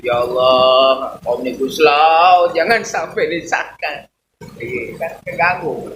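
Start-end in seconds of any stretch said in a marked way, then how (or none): 0.1-4.1 mock loud prayer. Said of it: "Doa tengah malam tahajud".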